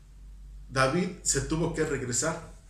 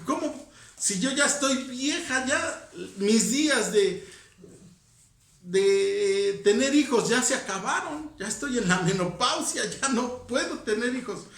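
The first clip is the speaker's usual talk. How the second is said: mock disbelief, pitched up on cómo; incredulous Sara; 5 semitones higher than usual. Preacher voicing Sara, scoffing disbelief. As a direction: play Sara scoffing at having a baby. Sara laughs at God's promise.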